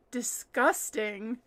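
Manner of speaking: slow, drawn-out Scottish accent. Shown as a demonstration. Host shows the one word she can do, Scottish accent. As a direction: say "disgusting" slowly as a Scot would. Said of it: "with a Scottish accent".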